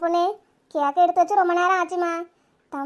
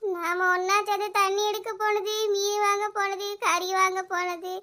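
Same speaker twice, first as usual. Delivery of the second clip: soft lament; 3 dB quieter than usual. Acted. Lament recalling memories.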